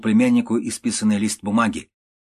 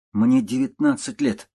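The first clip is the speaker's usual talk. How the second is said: nervous nephew. Acted. Nephew blurts out to uncle.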